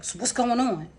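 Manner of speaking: a touch of nasty attitude, imitated. Sister questioning the person staying in her room, mildly nasty. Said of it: "Like, real nasty".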